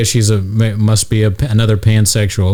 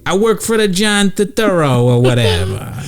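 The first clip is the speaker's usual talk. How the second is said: mock Irish accent; 6 semitones higher than usual. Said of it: "You know how the Irish are".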